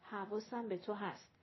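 quietly. A narrator's reading. Man leaning close to reassure her, quietly. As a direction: lean in and say it softly. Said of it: "سهراب سر جلو آورد و یواش گفت".

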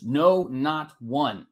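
NO, NOT ONE in slow, separate words; emphatic repetition. Retold or imitated. Preacher re-emphasizing Paul's point to listeners, slow and emphatic. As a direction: draw out "No, not one" word by word for weight. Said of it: "And he reemphasizes".

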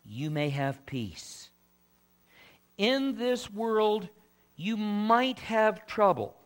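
slow, spaced-out quotation from the Bible; deliberate preacher's delivery of Jesus's words; scripture reading. Acted. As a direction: proclaim it phrase by phrase, with long pauses.

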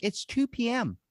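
high-pitched mock outrage at the clerk; exasperated. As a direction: retell the argument with mock disbelief. I'm like.

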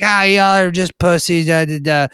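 high-pitched imitation of a dismissive girl; singsong-high mock scoffing; mocking taunt. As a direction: mimic her brushing them off. Imitates the drunk driver taunting.

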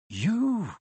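high, breath-caught disbelief; one stunned, rising-and-falling word; shocked gasp. Acted. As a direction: gasp it out in astonishment. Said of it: "gasped Harry".

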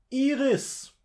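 loud, high cry of a name; theatrical shout within a poem; calling out. Acted. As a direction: call out for someone, voice leaping up. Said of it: "rief ich".

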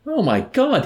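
high, loud anguished wail; a general's cry of despair. A narrator's reading. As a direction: wail it out in dismay. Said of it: "he wailed".

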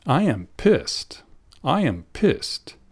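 slow, lightly lilting, mildly merry delivery; cheerful London friend. Acted. Happy London friend greets you in the street, mildly merry. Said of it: "Ella se ve muy alegre y te dice".

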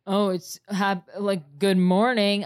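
slow, loud mock morning call; half-yelled imitation of a morning wake-up; imitated yelling. Tyler waking her up in the morning, mock yelling. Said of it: "Tyler's yelling at me 'cause he's like".

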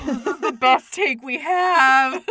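loud, slow, laughing; laughing resigned director. Retold or imitated. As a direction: crack up while saying it. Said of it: "the director is like".

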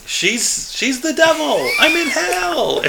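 high shrieking scream. Retold or imitated. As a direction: shriek it in panic.

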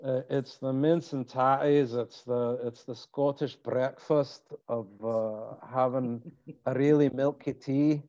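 put-on Scottish lilt; Scottish accent. Host playing Scot over breakfast, Scottish accent. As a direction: chat like a Scot, R's rolled. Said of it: "key to a good Scottish accent".

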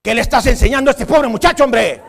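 an old man scolding in mock outrage; indignant grandpa.

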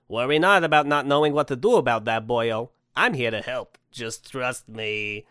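loud opening, slowing at the end; assuring Santa. Acted. Santa offers doubtful man his help, hearty assurance.

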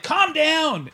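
mock calming. Reporter calming the brother.

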